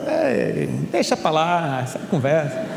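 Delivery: hammed-up reluctant brush-off; evasive. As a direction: play someone awkwardly avoiding a question. Samuel acted dodging Eli's question.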